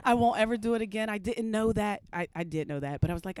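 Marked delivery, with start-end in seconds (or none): 0.0-2.0 higher-pitched mock-innocent pleading; meek apology. Woman imagining apology to officer, mock innocent. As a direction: play innocent, pitched up, a laugh slipping in. Acts silent apology to cop.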